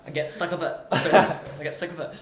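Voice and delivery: put-on Glaswegian grumble; Glaswegian accent. Shown as a demonstration. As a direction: grumble in a jokey Glasgow accent. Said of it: "I start speaking like this".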